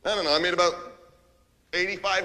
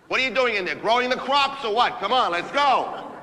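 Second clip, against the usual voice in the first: raised, pushy complaint; impatient; 3 semitones higher than usual. Acted. Starving boss hurrying Diane, impatient. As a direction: hurry your assistant along.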